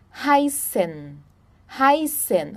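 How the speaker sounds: "Heißen" with a hissed double S. Shown as a demonstration. Teacher warning ß is not B, "Heißen" with SS. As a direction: say "Heißen" with ß as SS, never B. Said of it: "ele tem um som de dois S's".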